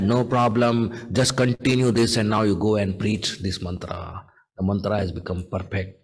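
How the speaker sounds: low, settled guru's voice; calm reassurance. Retold or imitated. Guru tells his disciple all is well, calmly reassuring. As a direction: explain calmly, pitched low.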